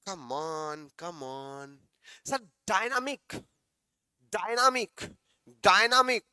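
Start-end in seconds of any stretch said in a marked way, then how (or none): none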